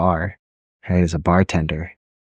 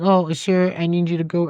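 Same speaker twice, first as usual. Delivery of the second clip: higher mock polite order; higher mock polite lady; lady's order; 9 semitones higher than usual. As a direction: play the fussy attendant, higher. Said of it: "She's like".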